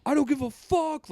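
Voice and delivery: high mock snarl; imitated kid. Son cursing his mom, high mock voice. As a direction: play the bratty son. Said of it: "being like".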